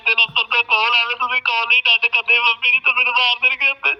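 tearful, urgent begging; crying. Acted. Son begs mother to ignore calls, crying. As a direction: plead through tears not to answer calls. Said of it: "ਰੋਣਾ ਨਹੀਂ ਤੂੰ".

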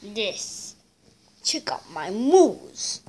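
slow breathy whisper. Acted. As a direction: whisper it proudly. Showing off dance in game.

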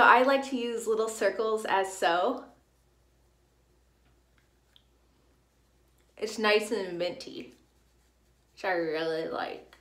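talking while rubbing teeth; finger in mouth. Real, not acted. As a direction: lips held apart by finger. Seen 0: Finger wipe rubbing teeth in mouth throughout labelled words.

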